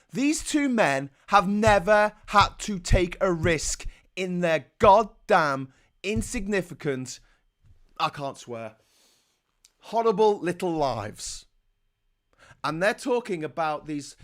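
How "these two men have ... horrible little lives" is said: loud, slow, heavily punched scorn; indignant rant. Real, not acted. Vlogger on men who never took a risk, angry rant. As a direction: spit out each word with real anger.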